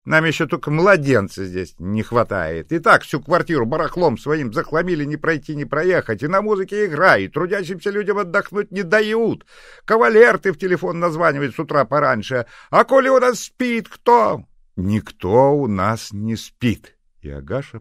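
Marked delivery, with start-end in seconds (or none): 0.1-14.4 put-on shrill ranting old woman. Neighbour ranting, ever louder. 14.8-17.0 curt slow retort. Acted. Agasha shuts door on her.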